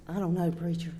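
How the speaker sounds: soft, away from the microphone; barely picked up, speaking off-mic; faint off-mic voice; too far from the mic. Retold or imitated. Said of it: "Get closer to the mic".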